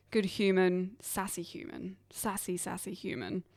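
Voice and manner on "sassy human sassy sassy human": quiet. Real, not acted. Hushed teasing about friend.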